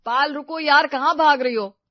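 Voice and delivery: put-on breathless boyfriend calling out; panting call. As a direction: call after her as if winded from running. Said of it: "अनंत की हाफती हुई आवाज आई".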